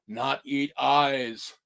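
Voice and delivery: a hint of a zombie. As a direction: drag the words like the undead. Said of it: "Zombie went".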